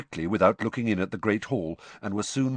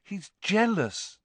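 higher, slow and deliberate statement; slow verdict; 13 semitones higher, slower than usual. A narrator's reading. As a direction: let the word land.

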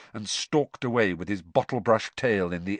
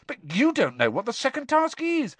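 put-on boy voice; 12 semitones higher than usual. Harry voice.

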